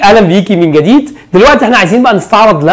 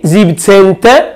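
slow syllable demo; much slower than usual. Shown as a demonstration. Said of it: "يبقى زيبتين،".

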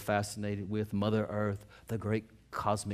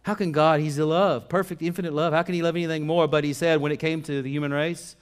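raised, emphatic pulpit reading; forceful scripture preaching; 7 semitones higher, 9 dB louder than usual. Real, not acted. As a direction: proclaim the verse with rising energy.

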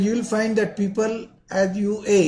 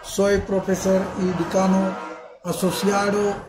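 Indian-accented Spanish. Real, not acted. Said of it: "apologies for my Spanish pronunciation".

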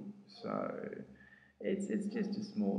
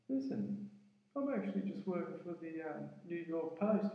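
much higher, different voice for the New York reporter; imitated journalist; 7 semitones higher than usual. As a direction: put on the newsman's voice. Journalist voiced in retold story.

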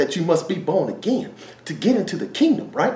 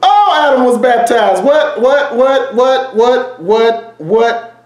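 louder, higher, rapid repeated what; excited; 4 semitones higher, 5 dB louder, slower than usual. Real, not acted. Preacher thrilled that Adam was baptized, excited repeated what. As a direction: pile up the whats in excitement.

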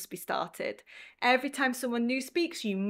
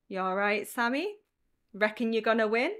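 casual blokey chat. Shown as a demonstration. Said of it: "more brief, more casual".

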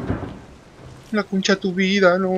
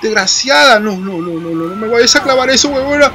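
furious shouting; 7 semitones higher than usual. Real, not acted. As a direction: shout her off you. Fighting off the monster.

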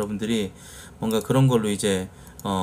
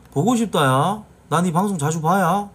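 Mokpo dialect; 5 semitones higher than usual. Retold or imitated. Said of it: "목포 말투가 원래".

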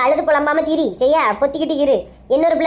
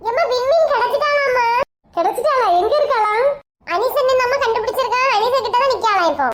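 put-on higher, eager young woman with news; breathless relief, sharing good news; young woman's voice; 6 semitones higher than usual. Young relative tells the mother the runaway was found, eager higher voice. Second character calls with news.

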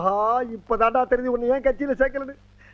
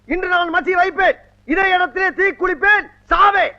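strained street theatre shout; 3 semitones higher than usual. Acted. Leader's street speech.

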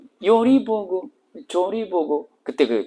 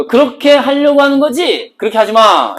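scolding command; 8 semitones higher, 5 dB louder than usual. Pretend. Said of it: "이거죠".

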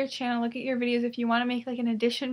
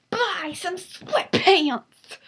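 mock ad pitch; 3 semitones higher, 6 dB louder, much slower than usual. Mock sweatpants commercial.

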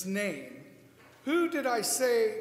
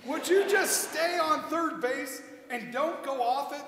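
frustrated. Acted. Frustrated demand.

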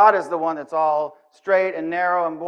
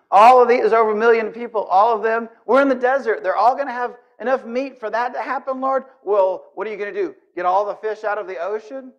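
louder, higher, incredulous Moses; incredulous outburst; 6 semitones higher, 4 dB louder than usual. Pretend. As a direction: Moses can't believe what he hears, laughing.

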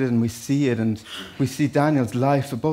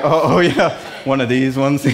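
laughing mock reaction; 4 dB louder than usual.

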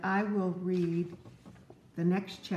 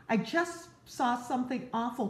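mock alarmed cry; 5 semitones higher than usual. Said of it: "cried the mouse".

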